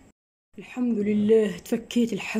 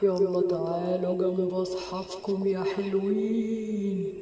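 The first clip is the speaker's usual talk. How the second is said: very slow, drawn-out taunting call; mock-sweet villain; much slower than usual. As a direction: lure them in with fake sweetness. Kidnapper drawls menacingly.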